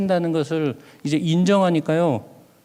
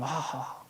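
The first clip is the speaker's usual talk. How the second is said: very soft mock "haha"; imitated stifled laugh; 5 semitones lower, 15 dB quieter, much slower than usual. Preacher showing laughter held down among weeping worshippers, stifled laugh. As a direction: laugh as if not daring to be heard. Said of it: "막 이러고 웃고 있었어요".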